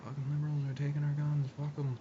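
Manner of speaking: a hint of a gun-loving hick; mocking gun lovers. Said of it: "they're all like".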